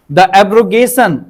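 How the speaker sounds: The abrogation drawn out slowly, falling at the end; slow model reading. Shown as a demonstration. Teacher reading an example phrase slowly to the class, careful and clear. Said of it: "noun की तरह use किया हमने इसको".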